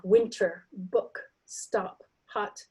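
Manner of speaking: "winter, book, stop, hot" with hard t, p, k; strongly released consonants in "winter, book, stop, hot"; stressed final stops. Shown as a demonstration. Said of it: "They'll be stressed more".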